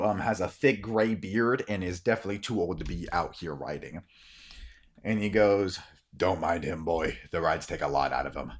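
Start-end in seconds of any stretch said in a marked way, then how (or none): 6.2-8.5 lightly voiced older man, lower; a low, easy old guard. Older guard reassures the boy.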